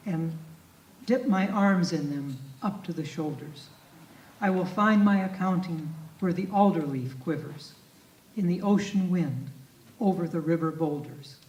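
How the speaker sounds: measured, grave reading of a poem; poetry reading. Acted. Lecturer reading Jeffers aloud to the audience, grave poetry reading.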